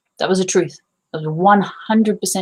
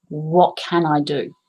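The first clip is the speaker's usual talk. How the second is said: calm self-question; 3 semitones lower, slower than usual. Retold or imitated. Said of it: "I closed my eyes and I went".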